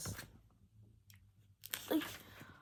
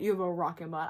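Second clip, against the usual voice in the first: mock surfer dude; 5 semitones lower, faster than usual. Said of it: "He has never said".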